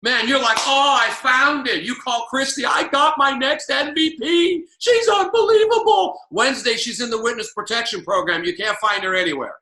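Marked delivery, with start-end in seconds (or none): 0.6-1.8 slow, higher, louder thrill; mock excitement. Imitating an eager upline. 2.6-6.2 rising higher and louder into a squeal; mock gushing. Bragging to Christy on the phone.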